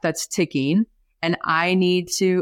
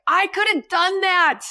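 higher, pleading to be given a shot; eager boast; 8 semitones higher than usual. Retold or imitated. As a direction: sell yourself as the cool mom. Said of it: "I'm like".

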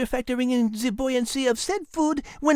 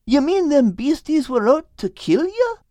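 fearful; 6 dB louder than usual. Acted. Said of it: "awash in fresh fear".

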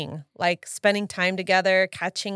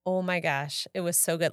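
put-on Minnesota accent; 6 dB quieter than usual. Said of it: "I'm talking like I'm from Minnesota".

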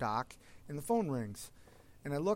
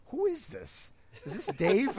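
startled question; 8 semitones higher, 4 dB louder than usual. Retold or imitated. Confused on a prank call.

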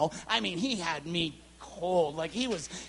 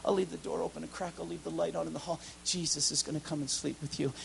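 softer, lower gentle dad; father's voice; 3 semitones lower, 6 dB quieter, faster than usual. Retold or imitated. Father comforts his scared daughter, soft gentle voice. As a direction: soothe her like a father. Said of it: "Daddy comes to the room".

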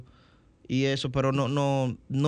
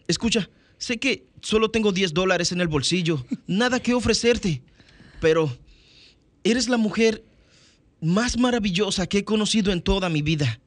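Jack dubbing voice; 4 semitones higher, 3 dB louder than usual. Shown as a demonstration. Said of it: "te metes en ese personaje con esa voz".

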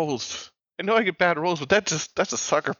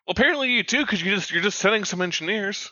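higher-pitched, indignant retort; acted argument; 6 semitones higher than usual. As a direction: argue back in mock outrage. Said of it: "start yelling about how".

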